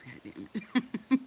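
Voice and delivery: slow, drawn-out exasperation; mock exasperated. Watching sister park on ice.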